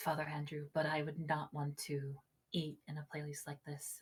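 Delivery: hushed apologetic tone.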